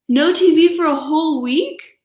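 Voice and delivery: high, loud, disbelieving cub cry; shocked cubs. Acted. Cubs hear they lose TV for a week, shocked and high. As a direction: cry out as if the news is a disaster. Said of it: "said the shocked cubs".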